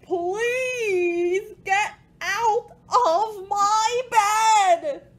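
loud, high, slow wailing plea; begging. Acted. Dog begging the cat to leave, loud tearful plea. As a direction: beg like you're near tears. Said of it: "He begged".

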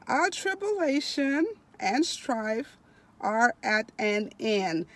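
slow, stretched, emphatic reading aloud; devotional reading. Acted. Preacher reading of heaven to online listeners, slow devotional reading. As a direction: draw out key words with rising swells.

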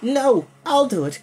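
an eager slow shout; cried out. A narrator's reading. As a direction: call out to be chosen. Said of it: "Kevin cried".

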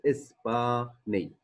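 إسباني in separated syllables, ending stressed; teaching model of إسباني, part by part; syllable-by-syllable demonstration. Shown as a demonstration. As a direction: break إسباني up for learners. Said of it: "إسبانيا بتصير".

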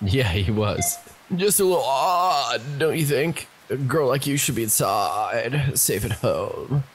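surfer voice. Acted. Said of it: "Why does he talk like that now?".

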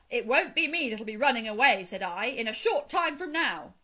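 loud, emphatic warning; forceful, boastful scare story; bragging threat. A narrator's reading. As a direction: frighten the sentries with a tall tale. Mole retells his bragging threat.

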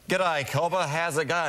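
casual Australian accent. Shown as a demonstration. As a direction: greet someone in an Australian accent.

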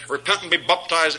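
"baptized" said as "BOP-tized"; mocked mispronunciation. Preacher mimicking Campbellites who can't say it right, mispronounced "baptized". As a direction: imitate them turning "baptized" into "bop-tized". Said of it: "They can't even say it right".

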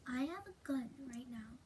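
low, soft, halting warning; secretive near-whisper; hushed threat. Acted. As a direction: lean in and warn quietly. Secret threat about a gun.

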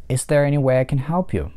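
is there any way I can help you with way and help stressed. Shown as a demonstration. Teacher models stress on way and help. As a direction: lean on way and help. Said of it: "два слова под ударением way и help".

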